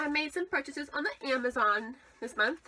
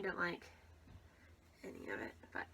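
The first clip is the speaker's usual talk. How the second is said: muttering; 6 semitones lower, 14 dB quieter than usual. Real, not acted. Fading muttered complaint.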